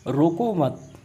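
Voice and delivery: रोको मत run together as one command; pause after मत. Shown as a demonstration. Teacher showing the second meaning, रोको मत grouped together. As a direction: join मत tightly onto रोको, then stop. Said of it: "यहाँ पे जाने देने की बात की गई है".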